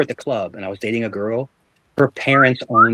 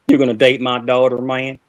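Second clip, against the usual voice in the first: a hint of a gruff country father; lightly voiced dad sizing up the boyfriend. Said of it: "that's how he sounded".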